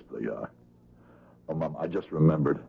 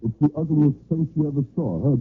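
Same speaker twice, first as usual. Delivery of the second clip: louder, bitter snarl about his face; bitter menace; 10 semitones higher, 6 dB louder than usual. Acted. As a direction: threaten her with self-hatred. Killer confronting victim.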